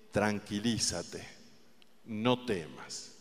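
soft, slow, tender comfort; quiet and slow, like soothing a frightened friend; softly and slowly reassuring; gentle reassurance. Acted. The Lord speaking to the listener.

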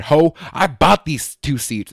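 loud, high, slow indignant retort; defensive outburst. Retold or imitated. Passenger snapping at airline staff, defensive. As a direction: snap back defensively, stressing every word. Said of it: "I got hella defensive".

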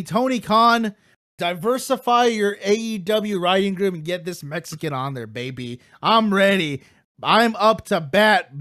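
high, excited wrestling-promo hype; building hype pitch. Acted. Fantasy booking builds to hype pitch.

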